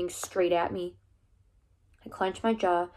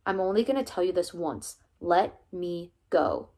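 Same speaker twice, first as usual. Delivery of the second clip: flat hard voice. Acted. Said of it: "His voice was flat, hard, scary".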